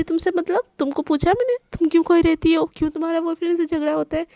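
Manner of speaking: put-on annoyed girl telling her friend to mind her business; irritated snapping. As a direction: bite the friend's head off. Divya snaps at friend.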